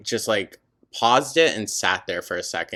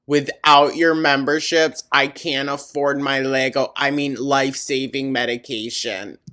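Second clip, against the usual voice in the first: mock pleading; 4 semitones higher, 5 dB louder than usual. Mocking S1's begging.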